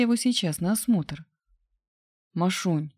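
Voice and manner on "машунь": mild tender call with a touch of hoarseness; understated, husky endearment; hoarse and tender. A narrator's reading. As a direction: call her pet name affectionately. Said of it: "хрипло и ласково позвал я".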